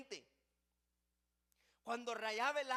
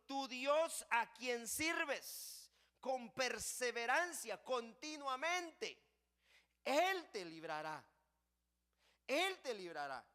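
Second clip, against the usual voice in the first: slow, emphatic preaching delivery; solemn declaration; slower than usual. Acted. King assuring Daniel that his God will deliver, solemn declaration. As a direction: proclaim it with drawn-out weight.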